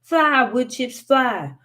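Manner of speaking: loud, high chant at the chips; hollered spell. A narrator's reading. Wiley hollering his charm against the axe. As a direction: shout the charm at the tree. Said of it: "Wiley hollered".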